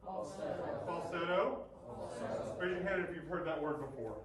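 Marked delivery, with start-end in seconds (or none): 0.0-2.6 soft whispered falsetto. Shown as a demonstration. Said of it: "Say falsetto".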